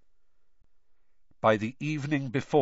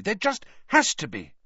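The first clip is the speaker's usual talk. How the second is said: crossly; 8 semitones higher than usual. A narrator's reading. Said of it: "Hermione said crossly".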